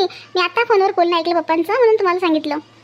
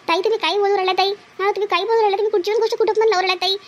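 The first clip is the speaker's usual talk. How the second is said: upset protest; 3 semitones higher than usual. Acted. Wronged woman protests accusation.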